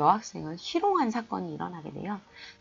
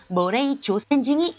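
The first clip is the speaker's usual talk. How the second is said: sneering retort; 5 semitones higher, 6 dB louder than usual. Retold or imitated. Fukuda sneers back.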